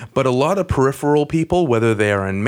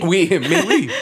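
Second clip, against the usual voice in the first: fake French accent; 6 semitones higher than usual. Pretend French podcast banter.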